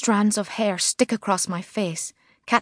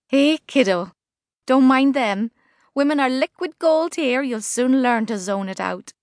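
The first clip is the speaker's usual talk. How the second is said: put-on Liverpool accent; 5 semitones higher than usual. A narrator's reading. Angie voiced, Liverpudlian.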